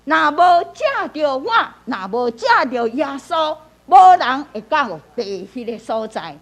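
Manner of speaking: 若无借着我 lifted, 无人 punched loud; emphatic. Shown as a demonstration. Teacher showing emphasis on key parts of the verse, emphatic 无人. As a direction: press on 我 and hit 无人 hard. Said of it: "你会当加强".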